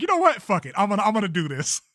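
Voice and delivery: defiant self-quote. Retold or imitated. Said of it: "And I'm like".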